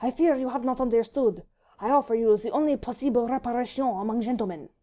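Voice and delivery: put-on earnest, formal French accent; broken English, French accent. A narrator's reading. Vicomte explaining his challenge, earnest French accent. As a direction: plead the point in halting French-accented English. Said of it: "in still more broken English".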